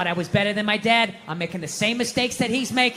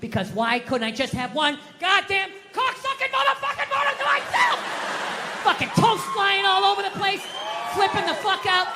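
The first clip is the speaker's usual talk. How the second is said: furious rant; 9 semitones higher than usual. Retold or imitated. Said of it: "I just absolutely lost it".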